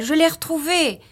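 high-pitched exclamation of discovery; excited cry. A narrator's reading. Wife announcing she has found the packet, excited cry. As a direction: call it out triumphantly. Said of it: "s'écria-t-elle".

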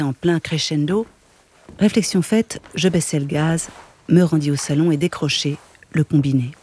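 narration de roman. A narrator's reading. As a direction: lecture posée et égale d'un récit. Lecture d'un roman à voix haute. (lecture de roman à voix haute)

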